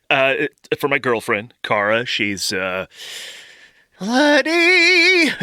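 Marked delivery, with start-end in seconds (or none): 4.0-5.3 high squeaky blurt of the name; blurted squeak. Acted. Nervous boyfriend blurts the name to the pharmacist, high squeak.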